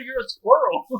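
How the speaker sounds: amused disbelief. Retold or imitated. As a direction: gesteld vast met een lach. Retelling his own disbelief.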